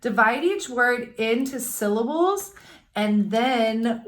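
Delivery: slow, careful reading of the directions; teacher reading a worksheet; reading directions aloud. Shown as a demonstration. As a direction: read the instructions to the class. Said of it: "so it says".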